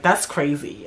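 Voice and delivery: quick, low judgmental reaction; mad judgy. Retold or imitated. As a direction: imitate a judgy friend, low and dismissive. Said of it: "y'all be saying it mad judgy".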